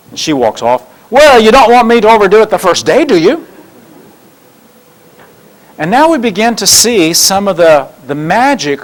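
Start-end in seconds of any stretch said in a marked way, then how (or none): 1.1-3.4 high, louder plea after her; high kid voice calling to Lucy; pleading Linus. Acted. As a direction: call out a high, wounded protest.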